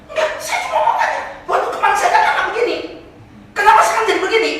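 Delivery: the man protesting to the devil that hell has changed; laughing protest. Acted. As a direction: complain in disbelief at the change.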